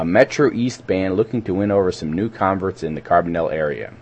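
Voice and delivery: scripted community-radio event read; measured public-announcement delivery. Real, not acted. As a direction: read the listing aloud, stepping through names and details.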